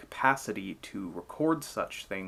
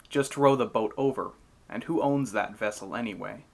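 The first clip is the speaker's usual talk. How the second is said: frustrated; 4 dB louder than usual. Acted. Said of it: "becoming more frustrated for a ride".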